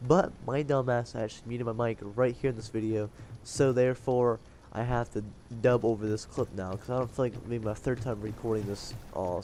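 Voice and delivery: blocked nose, mouth breathing; stuffy nose. Real, not acted. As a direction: talk through a head cold. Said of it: "I'm still stuffed".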